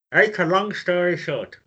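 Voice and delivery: talking around a mouthguard; words mushed by a mouthguard; wearing a mouthguard. Real, not acted. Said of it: "whoever's reading their saying needs to put the mouth guard in".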